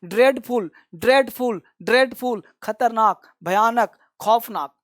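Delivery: teacher's word drill, evenly spaced with falling endings; repeat-after-me drill. Shown as a demonstration. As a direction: chant each word separately for the class to echo. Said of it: "बोलो, दोहराओ मेरे साथ".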